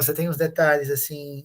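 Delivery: normal talking voice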